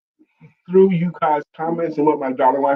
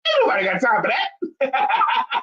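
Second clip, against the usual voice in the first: hammed-up catchphrase, higher at the end; imitating viral interview lady; 6 semitones higher than usual. Showing how the lady says it, hammed-up imitation. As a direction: put everything into her catchphrase. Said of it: "she put it all in her face".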